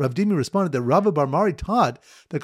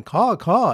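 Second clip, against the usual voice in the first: imitated caws, pitched up; mock bird cawing, higher than talk; weeping bird call; 5 semitones higher, 4 dB louder than usual. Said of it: "weeping and going".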